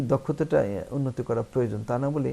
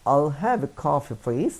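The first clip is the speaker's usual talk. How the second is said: slow, gentle polite request; much slower than usual. Shown as a demonstration. Teacher shows the polite way to order coffee. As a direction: ask for it politely, slowly. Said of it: "আপনি বলবেন".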